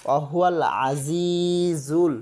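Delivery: ওয়াহুয়াল আজিজুল with the আ squeezed from the throat; throat-pressed ain. Shown as a demonstration. Teacher showing the throat sound, pressed. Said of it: "গলা চাপ দিয়ে বলবো".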